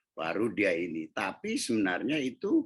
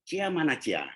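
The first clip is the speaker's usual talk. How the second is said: calling out; 8 semitones higher than usual. Retold or imitated. Father looking for daughter Cia, calling out. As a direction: call her name across the house.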